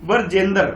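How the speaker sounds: ब्रिजेंद्र said as बरजेंद्र, the इ dropped; बरजेंद्र with an inserted अ and no इ; wrong Barjendra. Shown as a demonstration. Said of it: "किस तरह से किया".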